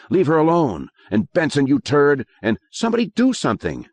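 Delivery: high, excited class shouting; kids shouting. Acted. Classmates shouting at the attacker, high panicked yells. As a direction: yell in panic for help. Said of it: "kids suddenly shouting".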